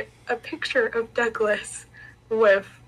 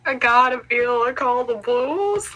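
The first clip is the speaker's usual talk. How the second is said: put-on shitty southern accent; 2 semitones higher, 4 dB louder than usual. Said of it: "I did a southern accent".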